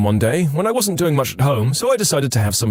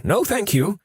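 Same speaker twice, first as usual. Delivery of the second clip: polite refusal; 7 semitones higher, slower than usual. Retold or imitated. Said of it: "before Grandma could say".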